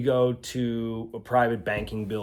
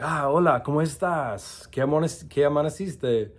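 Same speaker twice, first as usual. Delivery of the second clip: warm Colombian greeting; 4 semitones higher, 4 dB louder than usual. Retold or imitated. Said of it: "but it was so warm".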